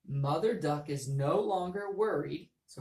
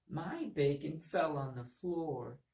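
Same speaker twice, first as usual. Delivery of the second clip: sad voice; slower than usual. Shown as a demonstration. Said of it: "I can change my voice to match that".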